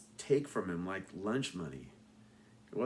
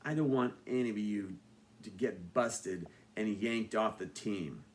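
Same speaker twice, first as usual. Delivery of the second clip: stern warning; 3 semitones lower, 5 dB quieter than usual. Acted. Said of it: "in the sternest voice I could manage".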